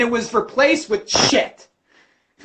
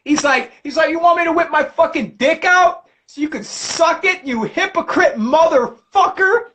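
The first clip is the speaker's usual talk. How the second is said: mock Jesus rant; 5 semitones higher than usual. Jesus ranting at hypocrites, higher yell. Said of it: "Jesus was like".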